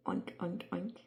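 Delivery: mild oinking answer; pig oinks. Shown as a demonstration. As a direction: oink back like a pig. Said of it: "What does a pig say?".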